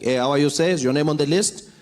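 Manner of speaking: lightly voiced South African security guard. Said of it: "the security guard came out to the boom".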